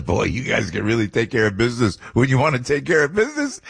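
a light, loosely voiced take on the president's manner; imitating the president. Joking about the Italians protecting the statue, a light impression of the president. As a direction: lightly voice the president praising them. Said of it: "He goes".

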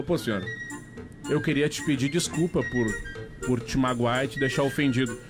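usual speaking voice

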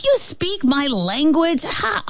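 high-pitched amazed ant; astonished exclamation. A narrator's reading. Ant finds the fly speaks Antish, astonished. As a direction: blurt it in amazement. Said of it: "the ant exclaimed".

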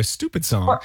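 "Stupid song" in an American accent, a rounded oo in "Stupid". Shown as a demonstration. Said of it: "I have to become an American".

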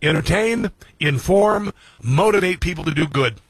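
each word set apart and pushed; host declaring his motto; reciting a mantra. Real, not acted. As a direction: stress Entertain, inform, then motivate. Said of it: "This is my mantra".

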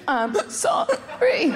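put-on slow, whimpering kid's sorry; hammed-up weepy apology; mock tearful apology. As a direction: drag it out like a sniveling child. Voices child made to apologize.

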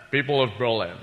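Scottish slurred "sh" for every s; low opening, then a slushy Scottish oration; Sean Connery. Acted. Comedian doing an actor delivering Kennedy's Berlin speech, slushy Scottish impression. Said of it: "No, Sean Connery doing, uh, President Kennedy".

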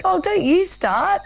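high, slow teasing protest that breaks into a laugh; laughing mock scold. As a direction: tease the teary doctor, laughing. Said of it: "I was like".

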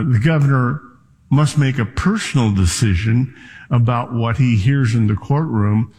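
usual speaking voice

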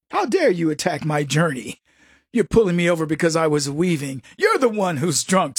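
put-on low, indignant drunk comeback; offended drunk driver.

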